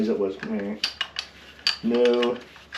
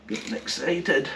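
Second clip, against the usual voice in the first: higher and slower, sing-song giddy repeat; drawn-out gleeful echo, pitched up; giddy excitement; 6 semitones higher than usual. Real, not acted. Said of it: "Sorry, I'm getting excited".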